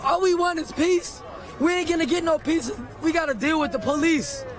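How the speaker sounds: raspy, worn-out voice; hoarse voice. Real, not acted. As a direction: voice giving out from days of shouting. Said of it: "I'm losing my voice".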